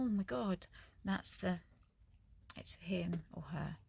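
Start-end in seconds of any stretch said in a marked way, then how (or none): 2.6-3.8 whispered aside. Real, not acted. Whispering near the cat, not to scare it. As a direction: hush it so the cat stays.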